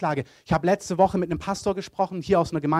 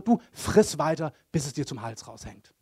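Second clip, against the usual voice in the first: blunt pastor; 3 semitones lower than usual. Retold or imitated. Pastor bluntly telling an unrepentant sinner to carry on, brachial. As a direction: quote a pastor's brutal bluntness, unhurried. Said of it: "ich sag das mal so ein bisschen brachial".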